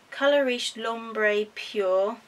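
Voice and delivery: slow, hammed-up French accent on the product name; bad French accent. Shown as a demonstration. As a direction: read the name in a clumsy mock French accent. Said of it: "That's probably the worst French, French accent ever".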